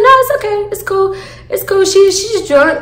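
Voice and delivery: high-pitched placating plea. Retold or imitated. Telling her angry boyfriend it's cool, placating.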